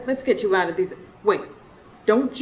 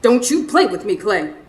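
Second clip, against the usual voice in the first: scolding; 4 dB louder than usual. Acted. Wife scolding husband.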